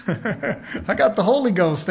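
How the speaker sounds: laughing. Real, not acted. Laughs at his own joke.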